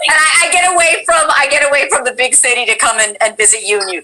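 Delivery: Jewish New Yorker lady. Pretend. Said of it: "mine's a Jewish New Yorker".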